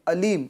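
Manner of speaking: علیم starting on a light plain a, like alim; wrong hamza. Shown as a demonstration. Teacher showing the misreading, hamza in place of ayn in علیم. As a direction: drop the throaty ayn from علیم. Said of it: "حمزہ کی آواز ادا کرتا ہے".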